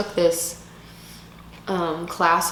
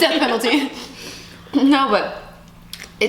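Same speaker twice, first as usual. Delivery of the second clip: laughing; 7 semitones higher than usual. Real, not acted. Repeating the joke, laughing.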